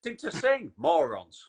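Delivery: rant, then drop onto the insult; mock exasperated shouting. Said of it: "I'm screaming at the T V".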